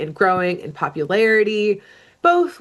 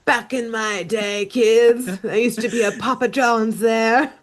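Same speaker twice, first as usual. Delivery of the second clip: put-on slow old storyteller, laughing through it; hushed creepy legend telling; 3 semitones higher than usual. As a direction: tell it like a campfire legend.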